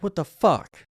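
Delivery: mock road rage. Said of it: "you're like".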